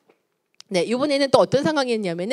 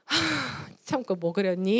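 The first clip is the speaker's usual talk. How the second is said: calm after deep breath; 3 dB quieter, slower than usual. Acted. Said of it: "심호흡하고".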